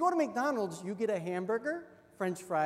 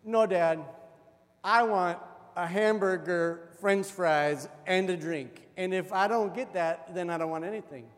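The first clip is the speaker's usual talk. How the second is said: insistent repeat; 5 dB louder than usual. Retold or imitated. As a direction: spell it out firmly like a stubborn child. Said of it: "And so I repeated it".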